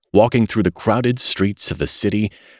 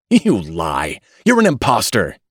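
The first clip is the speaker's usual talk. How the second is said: angry; 3 semitones higher, 4 dB louder than usual. Acted. Father accuses the old baby.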